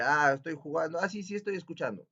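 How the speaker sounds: distracted reply. Shown as a demonstration.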